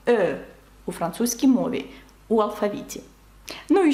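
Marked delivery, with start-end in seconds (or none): 0.1-0.4 "Е" as a rounded French eu; isolated rounded "Е", not eh or ye; French letter E. Shown as a demonstration. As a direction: round the lips for "Е", like ø. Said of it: "Ні Е, ні Є, а саме".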